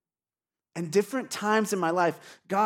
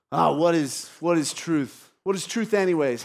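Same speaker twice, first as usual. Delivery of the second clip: mildly dismissive comeback; retort; 5 dB louder than usual. Acted. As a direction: brush the question off with a light retort. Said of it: "Pilate kind of retorts".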